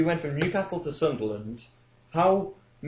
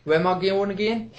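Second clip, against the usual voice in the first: put-on higher, muddled old lady; confused old woman; 6 semitones higher than usual. Old caller forgetting where she's going, confused. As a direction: sound lost and forgetful. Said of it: "Like, uh".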